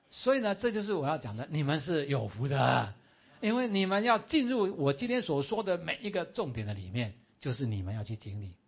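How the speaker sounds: loud, rising sermon proclamation; preaching at full force. Real, not acted. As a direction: declare the blessing over them with full force. 讲道高潮宣告祝福. (大声激昂地宣告)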